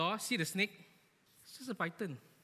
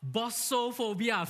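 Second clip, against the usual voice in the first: bossophobia said slowly, each syllable spread; drawn-out term; 5 semitones higher, 4 dB louder, slower than usual. Shown as a demonstration. Preacher introducing a funny phobia name, slow. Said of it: "It's called".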